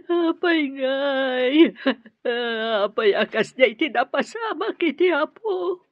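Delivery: tearful lament; a mother crying for her missing son. Acted. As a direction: speak through tears.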